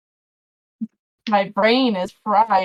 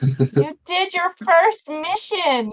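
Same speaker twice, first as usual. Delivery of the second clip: announcer; 7 semitones higher, much slower than usual. Acted. GM announces mission success.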